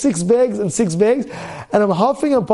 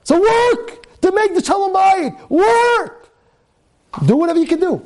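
fiery exhortation; 8 semitones higher than usual. Acted. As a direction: hammer the word work. Preacher exhorting troubled husbands.

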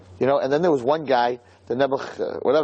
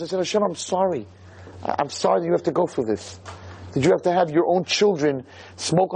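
higher, strained voice close to tears; tearful plea to God; 5 semitones higher than usual. Real, not acted. Man sorry before God at the Wall, voice nearly breaking. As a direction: pour out a heartbroken apology to God. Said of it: "I was crying".

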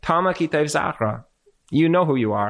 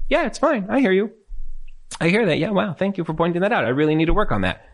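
mock easygoing reply; 4 semitones higher than usual. Calm reply to criticism.

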